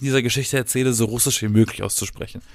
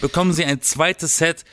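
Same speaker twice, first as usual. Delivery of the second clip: teleshopping voice; 5 semitones higher than usual. Pretend. Parodies teleshopping ad.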